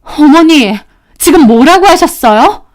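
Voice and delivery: appalled daughter-in-law; shocked. Acted. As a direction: challenge her, stunned by the insult. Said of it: "저는 입이 뜨악했죠".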